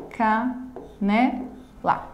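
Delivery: "Canela" in three slow beats: ca, ne, la; syllable by syllable. Shown as a demonstration. Teacher showing a three-syllable word, syllable by syllable. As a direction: pause after each syllable of "Canela". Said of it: "trissílaba".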